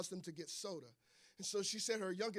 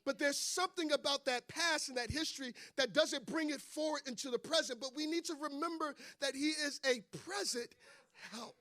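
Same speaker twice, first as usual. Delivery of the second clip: raised, insistent preacher's voice; preaching; 6 semitones higher than usual. Real, not acted. Preacher urging the church to remember, preaching. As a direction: press the point to a congregation.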